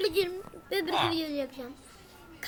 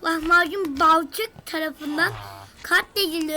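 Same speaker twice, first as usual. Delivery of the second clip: slow, loud announcement of a kill; mock death notice, drawn out and loud; mock announcer; 6 dB louder than usual. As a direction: read it out like a grand game announcer. Reading kill message aloud.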